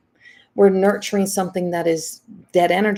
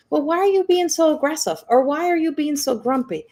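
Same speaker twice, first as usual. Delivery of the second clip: mock accusing question; 7 semitones higher than usual. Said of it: "somebody said".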